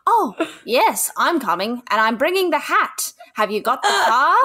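overdone mock-knowing phone act; clumsy improv. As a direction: act out a stagey improv reply. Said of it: "It's improv".

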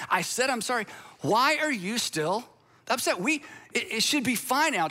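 hammed-up why-are-you-still-upset; exasperated apologizer. Pastor voicing a frustrated spouse after apologizing. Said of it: "repairing a relationship isn't easy".

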